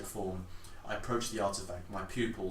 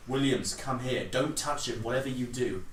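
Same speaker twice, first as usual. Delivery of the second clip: urgent command; 3 semitones higher, 6 dB louder than usual. Acted. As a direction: call him over, tense and firm. Urgent command near the artifact.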